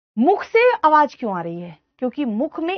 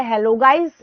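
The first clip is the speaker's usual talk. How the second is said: casual modern greeting; 4 dB louder, much slower than usual. Shown as a demonstration. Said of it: "अब क्या हो गया?".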